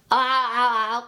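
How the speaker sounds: high, choppy cartoon laugh; SpongeBob laugh. Shown as a demonstration. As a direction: chop the laugh with your jaw. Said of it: "the SpongeBob laugh".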